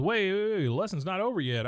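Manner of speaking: acted urgent objection, easing off; mock protest. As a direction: call after someone who is leaving. Acting golfer stopping her leaving.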